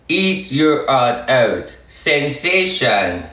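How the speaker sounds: slow, drawn-out taunt. Real, not acted. Taunting the doubters slowly: "Eat your heart out". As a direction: stretch every word like a taunt. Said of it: "My message to you fuckers out there".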